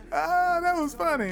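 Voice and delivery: words squeezed out between laughs; laughing. Real, not acted. Still laughing after joke.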